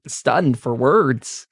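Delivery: ordinary delivery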